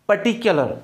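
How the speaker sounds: पर्टिकुलर said "puh-TIK-yuh-luh", with a short weak u; पर्टिकुलर as "puh-TIK-yuh-luh", no long "kyoo"; correct pronunciation. Shown as a demonstration. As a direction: reduce the u in पर्टिकुलर to "kyuh". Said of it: "आपका सही pronunciation है".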